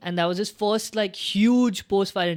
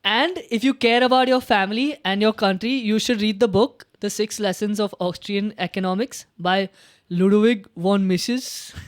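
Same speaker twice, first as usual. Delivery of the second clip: mock shouted call-out; 2 semitones higher, 4 dB louder than usual. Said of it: "He's like".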